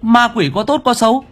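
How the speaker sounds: high, stammering pleading to a ghost; frightened stammering plea. Acted. Boy stammering a plea to the ghost Yến, frightened and high. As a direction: beg the ghost, tripping over words. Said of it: "Tôi lắp bắp nói".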